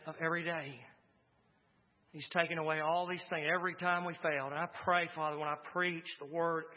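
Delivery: calm, hushed pastoral prayer. Acted. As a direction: lead the church gently in prayer. Leads the closing prayer.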